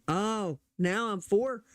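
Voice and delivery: lightly put-on voice of a pop star's sudden conversion; mock celebrity endorsement. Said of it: "It wasn't like she was at the house".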